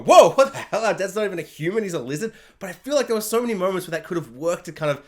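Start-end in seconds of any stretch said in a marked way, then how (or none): 0.0-2.3 mock shocked gasp. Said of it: "make them all go".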